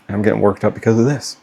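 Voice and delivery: quick words through a self-conscious laugh; a father laughing at his own emotion, quick and sheepish; laughing at himself. Real, not acted. Laughs at himself mid-sentence.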